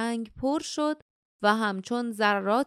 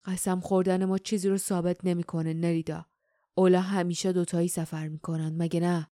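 lower, measured voice of a suspicious warrior; a lightly voiced stern swordsman; stern warrior Dom; 4 semitones lower than usual. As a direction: speak low and steady, cool and doubting.

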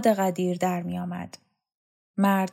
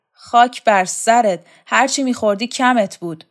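contemptuous insult; 4 semitones higher, 9 dB louder than usual. Acted. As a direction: drag out the insult. Shokat insults Vahab.

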